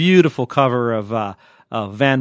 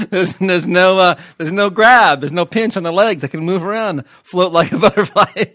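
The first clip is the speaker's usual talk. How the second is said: laughing boast; 6 semitones higher, 5 dB louder than usual. Real, not acted. Laughing boast about the robe.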